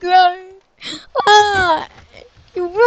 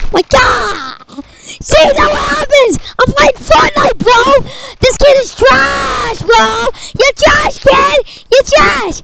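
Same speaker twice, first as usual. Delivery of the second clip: put-on higher, brash gamer kid trash-talking; hyped gamer kid; 5 semitones higher than usual. Son playing Fortnite taunting another kid, higher and brash. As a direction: crow over the game like a cocky teen.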